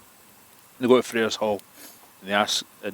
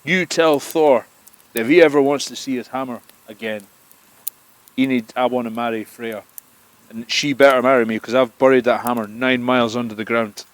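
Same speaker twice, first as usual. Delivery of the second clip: booming giant demand; 2 semitones higher, 7 dB louder than usual. Acted. Giant king to Loki, loud gloating threat. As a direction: lay down terms like a bullying giant king.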